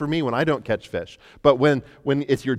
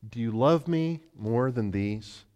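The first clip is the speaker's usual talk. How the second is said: tender question; 4 dB quieter, slower than usual. Acted. Jesus asks Peter.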